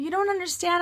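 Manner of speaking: high whiny protest; super whiny. Retold or imitated. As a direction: imitate your own annoying whine. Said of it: "super whiny and annoying".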